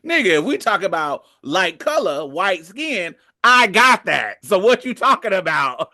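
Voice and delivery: lightly voiced cocky claimant; mock defiant immigrant. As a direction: throw it back like he's calling their bluff. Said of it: "the Japanese motherfucker was like".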